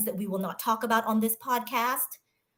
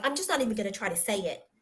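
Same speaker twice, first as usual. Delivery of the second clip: dismissive quote; much faster than usual. Retold or imitated. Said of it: "some people are like".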